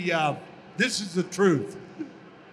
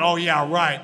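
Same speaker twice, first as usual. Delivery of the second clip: sarcastic; 3 semitones lower, 5 dB louder than usual. Retold or imitated. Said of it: "I was so rude".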